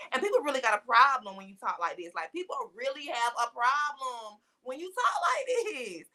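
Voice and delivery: Black American vernacular, stretched out at the end; casual Black vernacular. Shown as a demonstration. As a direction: play up the casual Black English. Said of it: "I can talk to you like this".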